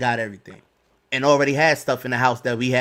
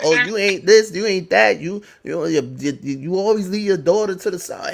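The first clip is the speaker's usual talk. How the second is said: mimicking angry wife; 4 semitones higher than usual. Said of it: "Cursed me out".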